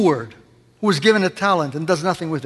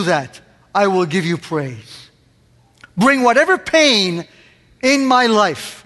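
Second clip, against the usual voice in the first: earnest prayer; 3 semitones higher, 4 dB louder than usual. Acted. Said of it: "Why don't we pray".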